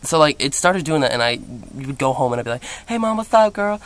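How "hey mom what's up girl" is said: campy greeting. Retold or imitated. Greeting mom in new gay manner.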